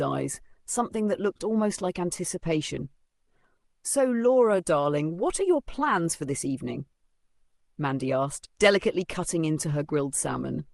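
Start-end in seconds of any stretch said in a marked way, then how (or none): 3.8-6.8 high, syrupy stepmother fishing for plans; sweetly prying stepmother. Acted. Stepmother probing at lunch.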